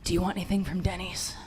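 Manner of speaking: hushed giggly stoned parent; half-whisper, laughing through a stoned offer. Pretend. Stoned parent sneaking into kid's room at night, hushed and giggly. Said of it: "be like".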